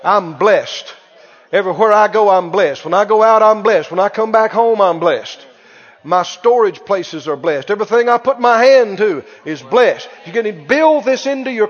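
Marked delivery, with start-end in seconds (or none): 0.0-10.1 bold declaration, spoken out loud; loud confession. Shown as a demonstration. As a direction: declare it loud to the whole house. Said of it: "Speak it out loud".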